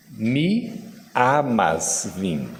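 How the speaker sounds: "Mi amas, vim" with open, un-nasal "amas"; Esperanto phrase said carefully. Shown as a demonstration. Teacher showing the audience how to say I love you, carefully. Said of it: "Eu quero dizer, "eu amo você".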